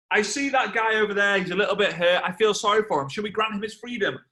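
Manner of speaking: acted emperor addressing the crowd; Julius Caesar. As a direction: proclaim it to the arena. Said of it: "Julius Caesar all of a sudden goes".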